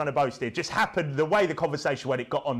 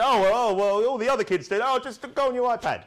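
mock child; 7 semitones higher, 4 dB louder than usual. Mocking kids talking back.

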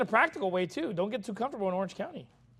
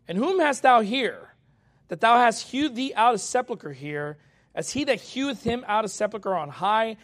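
scripture reading; 4 dB louder than usual. Acted. Preacher reading Isaiah to his church, declaiming. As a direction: proclaim the Lord's words to the congregation.

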